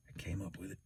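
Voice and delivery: far from the mic, faint; turned away from the microphone; faint and distant off-mic. Real, not acted. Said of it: "you can't hear me talk".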